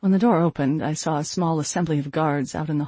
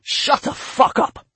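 slow, higher furious scream; 9 semitones higher, 5 dB louder, slower than usual. A narrator's reading. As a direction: scream it with full force. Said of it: "He screamed again".

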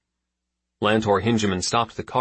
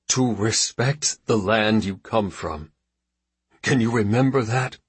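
restrained fury, teeth clenched; through gritted teeth; 2 semitones higher, 3 dB louder than usual. Acted. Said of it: "said his father through his teeth".

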